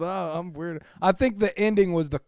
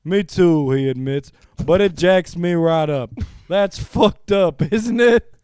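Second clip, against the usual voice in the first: best voice. Pretend. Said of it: "I'm gonna read this in my best voice here".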